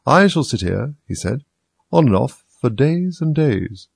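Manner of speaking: slow, drawn-out repeat; footman repeating, varied. Acted. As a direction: stretch it out lazily. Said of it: "repeating his remark, with variations".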